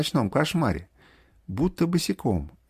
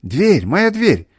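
loud, higher cry, slowly drawn out at first; acted wailing; 4 semitones higher, 7 dB louder, slower than usual. A narrator's reading. Mother crying that her door is unlocked, acted wail. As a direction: lament in mounting alarm. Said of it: "плакала мать".

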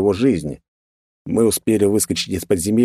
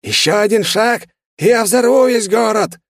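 high, loud panicked villain threat; hysterical shriek; 4 dB louder than usual. A narrator's reading. Demon shrieks his threat at the hero, hysterical. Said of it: "С истеричными нотками в голосе выкрикнул он".

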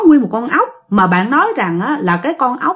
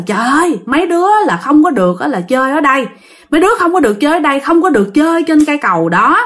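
retold scolding; 3 semitones higher, faster than usual. Uncle scolding kids off the bridge, retold scolding. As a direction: rattle off a stern warning, mildly acted. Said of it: "thì chú mới la".

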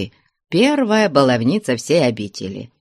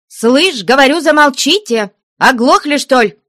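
high, loud angry shout; nun shouting the noisy girls down; 12 semitones higher, 5 dB louder than usual. Acted. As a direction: yell to silence the girls. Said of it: "крикнула она".

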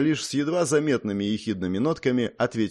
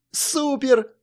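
high, delighted squeal; joyful cry; 3 dB louder than usual. A narrator's reading. Princess cheers the marquis's promise, joyful squeal. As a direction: squeal with glee. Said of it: "радостно воскликнула принцесса".

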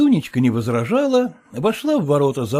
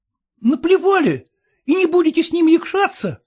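joyful exclaim; 8 semitones higher than usual. Acted. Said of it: "радостно воскликнул Глеб Кириллович".

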